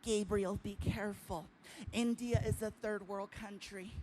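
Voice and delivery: lightly voiced Indian accent warning; a mild Indian-accented caution, sinking to a whisper. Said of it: "I love his accent".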